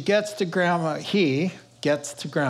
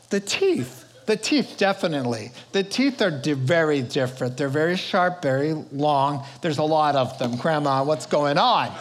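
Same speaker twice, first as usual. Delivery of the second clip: put-on worried little girl. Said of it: "she says".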